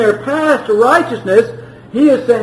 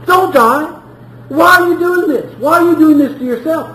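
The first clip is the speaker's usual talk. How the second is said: pleading; 4 semitones higher than usual. Acted. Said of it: "he pleads through the prophet".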